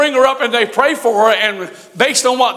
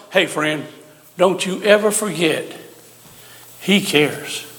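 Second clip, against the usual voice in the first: tender reassurance; 5 semitones lower than usual. Acted. Preacher comforting the congregation.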